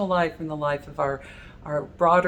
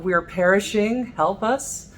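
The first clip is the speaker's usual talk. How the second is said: crying out; 3 semitones higher, 4 dB louder than usual. Retold or imitated. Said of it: "shake him awake and cry out".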